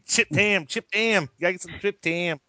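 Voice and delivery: playful Pittsburgh chant of chip ham, rising; mock yinzer insisting; Pittsburgh accent. Cohost jokes about Pittsburgh food in mock accent. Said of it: "talk with a Pittsburgh accent".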